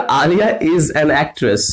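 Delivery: slow, even dictation; slow example read. Shown as a demonstration. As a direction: read the example sentence slowly. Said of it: "मैंने कहा". (धीमे उदाहरण पढ़ना)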